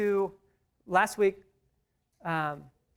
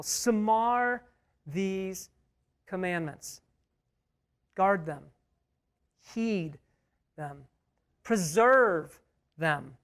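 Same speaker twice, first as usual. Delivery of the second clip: emphatic pleading Moses; much slower than usual. Retold or imitated. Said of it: "Moses is emphatic, pleading with these people".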